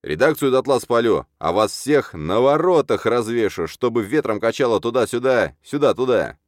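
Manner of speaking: loud, high ranting; angry threatening. A narrator's reading. Khan threatening to burn the office, angry. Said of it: "озлился Кончак".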